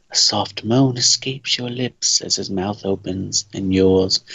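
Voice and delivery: sultry storyteller voice; sexy narrator. Acted. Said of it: "get into my sexy narrator voice".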